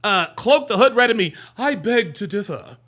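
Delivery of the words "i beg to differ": lightly mocked proper speaker; a hint of affected, correct diction; mock proper talk. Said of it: "you don't talk like that".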